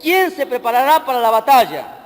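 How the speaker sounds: slow, deliberate Bible reading; scripture reading. Real, not acted. Preacher reading verse seven to the church, scripture reading. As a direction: read the verse out phrase by phrase. Reads scripture aloud to congregation.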